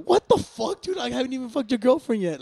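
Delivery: high, loud squawk of disbelief; retold incredulous protest. DJ retelling his protest to the jealous boyfriend, incredulous. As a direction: pitch leaps up in exaggerated, indignant disbelief.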